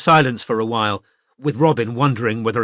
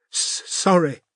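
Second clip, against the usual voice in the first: tearful stammer; 8 semitones higher, slower than usual. A narrator's reading. Zoe crying apologises.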